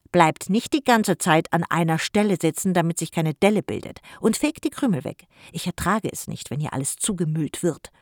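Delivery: loud, grumpy scolding; grumbling uncle. Acted. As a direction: grumble at the kids loudly, fed up. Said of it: "murrte Jim".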